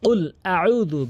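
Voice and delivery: very slow কুল আউযু, each sound drawn out; slow recitation drill. Shown as a demonstration. Teacher having students practise with him, slow chant. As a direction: recite it slowly for pupils to copy. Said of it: "বারবার practice করবেন আমার সাথে".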